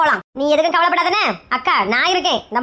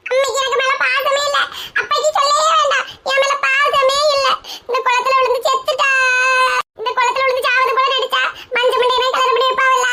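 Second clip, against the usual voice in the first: tearful wailing. Acted. Girl lamenting her parents' lack of love, tearful wail. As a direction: wail that nobody loves you. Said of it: "ஏய், எதுக்குடி அழுற?".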